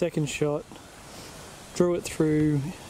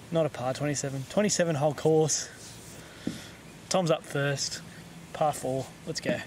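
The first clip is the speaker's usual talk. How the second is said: measured TV golf commentary voice; golf commentator. Acted. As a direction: call it like a broadcast golfer. S0 narrates match like TV.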